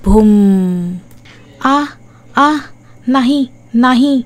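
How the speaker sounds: a burned ghost howling from the corner; ghost shrieking. Acted. Ghost woman shrieks in the hall corner, eerie and drawn out. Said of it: "जोरजोरात ओरडते".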